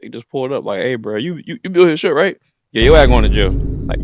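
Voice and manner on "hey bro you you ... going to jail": mock arrest yell. Government guys arresting Tom.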